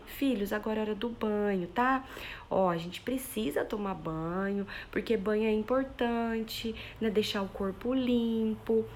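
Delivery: slow, over-explaining, pleading tone; too permissive. Shown as a demonstration. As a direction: coax the kids gently and at length. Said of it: "Aí eu tô sendo permissiva demais".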